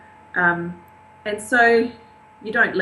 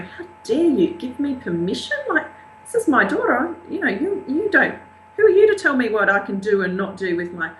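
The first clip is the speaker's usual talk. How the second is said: indignant inner voice; 6 semitones higher than usual. Retold or imitated. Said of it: "part of me inside is going".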